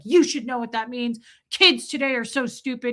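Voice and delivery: mild mock indignation; retold scolding. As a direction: imitate a man shaming someone. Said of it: "the guy shamed the shit out of me".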